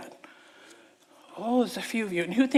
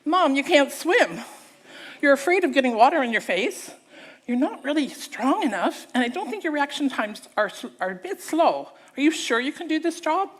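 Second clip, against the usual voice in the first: lightly voiced worried children, a bit louder; children's objection; 4 semitones higher, 3 dB louder than usual. Children doubting mom as river guide, mildly protesting. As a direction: protest as one of her kids would. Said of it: "do you know what they would say".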